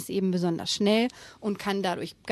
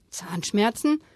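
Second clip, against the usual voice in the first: nervous gulp; slower than usual. Acted. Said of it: "schluckte Tiefsee-Doktor Theodor".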